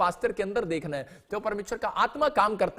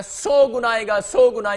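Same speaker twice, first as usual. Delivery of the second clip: proclaiming; 2 semitones higher, 8 dB louder, slower than usual. Acted. Preacher proclaims blessing.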